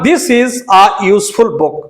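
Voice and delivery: slow corrected sentence; slow teacher reading; slow dictation. Shown as a demonstration. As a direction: read it out steadily. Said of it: "A useful".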